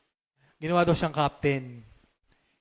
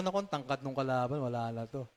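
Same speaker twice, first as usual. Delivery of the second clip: softer, lower, losing hope; despairing mutter; 6 semitones lower, 9 dB quieter than usual. Retold or imitated. Pastor retelling his worry during the boxing match, quiet. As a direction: sigh that the fight is lost. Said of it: "Sabi ko".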